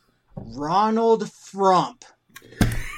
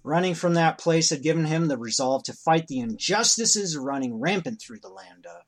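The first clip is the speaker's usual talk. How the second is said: story narration. A narrator's reading.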